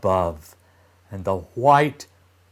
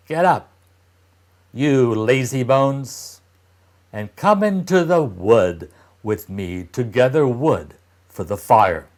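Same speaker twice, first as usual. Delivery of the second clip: louder, scolding stepmother; harsh stepmother; 4 dB louder than usual. Acted. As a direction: bark the children awake. Stepmother rouses the children.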